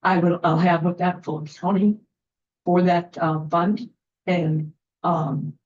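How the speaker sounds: shivering, shaky voice. Real, not acted. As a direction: voice shaking from the cold. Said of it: "my voice is shaking 'cause I'm freezing".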